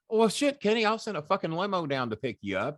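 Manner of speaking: imitating Cuban's eager invitation; excited offer. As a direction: jump at the chance, all enthusiasm. Cuban voiced offering a limo.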